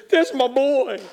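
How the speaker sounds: put-on a father beaming at his child; proud father. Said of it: "God the Father looks and says".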